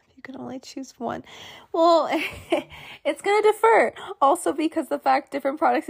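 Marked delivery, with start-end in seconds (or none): 0.1-1.2 whispered to herself; whispering. Real, not acted. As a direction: mull it over under your breath. Musing over the question.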